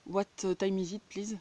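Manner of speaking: asking the time in English with a mock English accent; French speaker proudly putting on an English accent. Asking live viewers the time in a mock English accent. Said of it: "un bel accent anglais".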